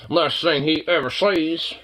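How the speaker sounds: slow, dramatic "Last thing he ever sees" with weight on "ever"; ominous repeat. Shown as a demonstration. Joking about the dog, now in slow mock-ominous narration. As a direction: drag it out like a movie trailer.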